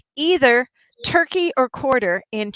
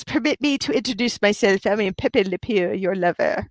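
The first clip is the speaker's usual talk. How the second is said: a light mock French accent, lover-boy cartoon skunk style; Pepe Le Pew French accent. Streamer quoting the cartoon skunk to chat, light mock French accent. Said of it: "Pepe Le Pew says".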